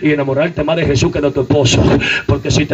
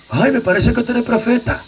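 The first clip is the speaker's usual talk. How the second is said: samaritan woman; 4 semitones higher than usual. Retold or imitated. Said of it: "Así le dijo".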